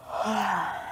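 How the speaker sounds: soft, airy yawn; demonstrated yawn. Shown as a demonstration. Teacher introduces the next word, demonstrated yawn. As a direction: open up into a quiet fake yawn.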